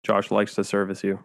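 low gravelly fry; vocal fry. Pretend. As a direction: creak through it in vocal fry. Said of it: "Vocal fry".

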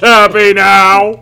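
put-on sassy girl voice. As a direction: stretch it out like a bored aristocrat. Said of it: "So Liliana's a sassy, sophisticated lady".

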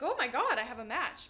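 a burst of glee, then settling on "match"; excited squeal. Retold or imitated. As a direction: replay the rush of getting a match. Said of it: "And I'm like".

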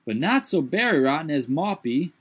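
high put-on dialect voice, startled; Jupiter's voice. A narrator's reading. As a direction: lift the voice high and protest.

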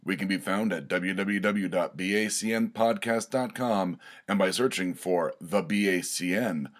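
measured outro announcement; promo read. Acted. Host pointing listeners to other network shows, promo read. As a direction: read out the show plugs evenly, as an announcer.

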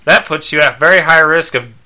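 insistent robot companion; Skeets. Acted. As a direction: report the diagnosis as a dutiful robot. Robot lists the owner's health problems.

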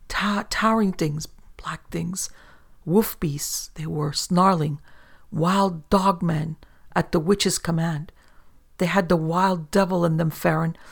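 terrified whispered description of beasts; fearful whisper. Acted. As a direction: hush and dread on every word. Merchant describing monsters in terror.

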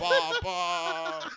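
high mock Austrian child voice; Austrian accent. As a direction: say it like a little Austrian boy. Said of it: "He's got an Austrian accent".

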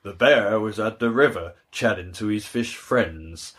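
lightly put-on slow storyteller; measured mock storybook read; storybook narration. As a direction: recount it slowly like a children's cartoon tale. Retelling a cartoon story.

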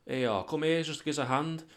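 high, soft, innocent-sounding mock voice; sneaky zombie guest. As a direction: sound harmless while hiding a bite. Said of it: "he's like".

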